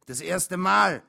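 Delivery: high, loud exclamation; calling out. A narrator's reading. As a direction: call it out eagerly. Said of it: "rief ich".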